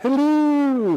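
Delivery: very high, drawn-out voice. Showing what the character says in the movie: Mrs. Doubtfire voice. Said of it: "You ever see the movie Missus Doubtfire?".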